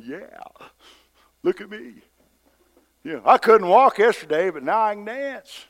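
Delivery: high, excited, boastful voice; gleeful showing off. Acted. Healed lame man showing off in court, excited. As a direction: crow it with delight, loud in the middle.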